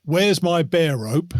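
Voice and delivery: slow quote. Retold or imitated. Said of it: "Lucky said".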